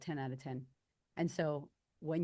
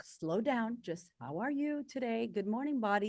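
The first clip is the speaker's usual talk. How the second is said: gentle self-talk; 4 semitones higher than usual. Retold or imitated. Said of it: "I have to, like, do a body scan".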